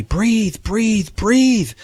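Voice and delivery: will the body back to life with each word; desperate yell. Retold or imitated. Yelling at her own lifeless body, high desperate pleading. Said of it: "I'm yelling at my body".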